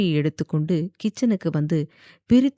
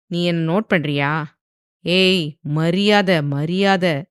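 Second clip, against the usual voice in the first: louder, clenched warning; through gritted teeth; 3 dB louder, slower than usual. Acted. Husband warning wife to show respect, through gritted teeth. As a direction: grind out the demand for respect. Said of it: "என்று ஆதி பல்லை கடிக்க".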